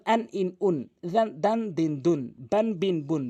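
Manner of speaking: আন ইন উন with short, undrawn vowels; quick tanwin reading. Shown as a demonstration. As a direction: read each of বান বিন বুন short. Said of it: "অবশ্যই দ্রুত পড়ে যাবেন".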